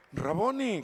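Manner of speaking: alto y fuerte, lento, con asombro; exclamación fuerte. Acted. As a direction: grita el reconocimiento de María. Predicador exclama el reconocimiento de María. (exclamación fuerte y aguda)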